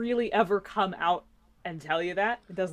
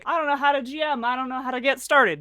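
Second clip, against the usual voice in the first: clueless newbie; 7 semitones higher, faster than usual. Retold or imitated. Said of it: "overhear people being like".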